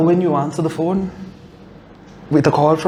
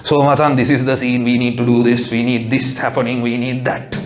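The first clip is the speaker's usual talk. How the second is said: confident know-it-all; 6 semitones lower than usual. Retold or imitated. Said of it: "confidently go and tell".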